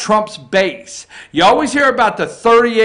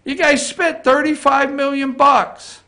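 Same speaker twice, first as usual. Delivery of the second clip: raised pitch, lightly voiced Trump scolding; Trump impression; 5 semitones higher than usual. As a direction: lecture them like Trump in the Rose Garden. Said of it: "He says".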